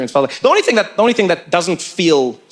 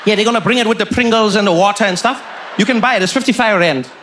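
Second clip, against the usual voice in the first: put-on deadpan Indian-accented seatmate; serious Indian accent. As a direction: reassure him in earnest, with an Indian accent. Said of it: "he said it so seriously".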